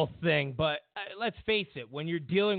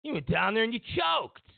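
raised mocking yell; mock taunt; 6 semitones higher than usual. Mimicking critics taunting Trump, raised mocking yell. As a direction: hurl it like a jeering critic.

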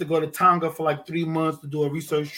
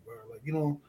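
ordinary talk

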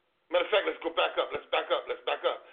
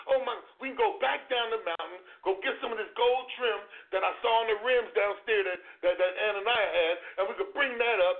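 excited Peter; 2 semitones higher than usual. Retold or imitated. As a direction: babble like an overjoyed disciple. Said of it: "He was excited".

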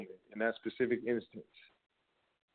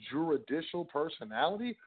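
incredulous rise on own juridical personality; scoffing echo of the legal phrase; mock disbelief; 4 semitones higher, 3 dB quieter than usual. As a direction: repeat juridical personality as if it were absurd. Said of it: "What does that even mean?".

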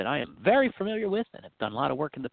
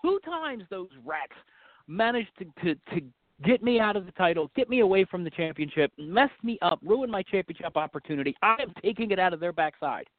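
angry wrestler promo; 4 semitones higher than usual. Acted.

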